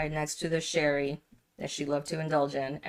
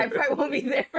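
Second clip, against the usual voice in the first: higher, louder laughing repeat; laughing echo; 10 semitones higher, 5 dB louder, faster than usual. Retold or imitated. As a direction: echo it while laughing hard. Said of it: "but he's like".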